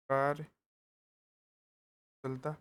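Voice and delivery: the word stretched out syllable by syllable; slow dictation. Shown as a demonstration. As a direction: drag the word out as you write it. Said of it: "dictating the word slowly". (कार्यकुशलता को लिखते हुए बहुत धीमे खींचकर)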